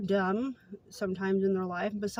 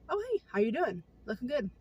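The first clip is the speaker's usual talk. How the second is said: friendly greeting; 3 semitones higher than usual. Retold or imitated. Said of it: "I'll just think".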